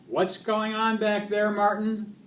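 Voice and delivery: high, loud driver's call. A narrator's reading. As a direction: demand an answer from the back. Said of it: "Miss Victoria called out".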